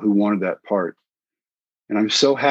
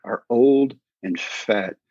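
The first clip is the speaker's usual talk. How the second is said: slow, drawn-out self-reproach; retold inner verdict, words stretched; blunt self-talk; much slower than usual. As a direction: spell it out slowly to yourself. Retold harsh thought to himself.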